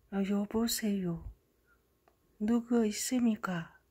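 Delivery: slow, halting foreign man on the phone; imitating a stranger's broken Korean; odd foreign accent. Foreign caller asking for the sister, slow mock accent. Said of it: "그 목소리가 좀 이상한 외국 남성이".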